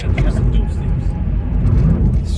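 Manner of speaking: whispered, slow wordplay. Pretend. Joking wordplay.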